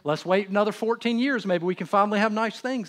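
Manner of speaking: hammed-up fed-up father; exasperated repeat.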